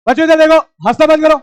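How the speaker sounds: loud call to order. Real, not acted. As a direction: snap the class back to attention.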